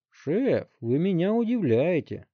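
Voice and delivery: put-on high, snarky teenage voice; a cheeky boy mocking his elder; sarcastic teen. A narrator's reading. Teen needling the chief from the back seat, sarcastic. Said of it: "съязвил Вилли".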